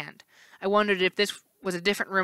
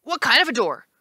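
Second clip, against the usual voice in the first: curious; 5 semitones higher, 3 dB louder than usual. Acted. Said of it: "the left face asked".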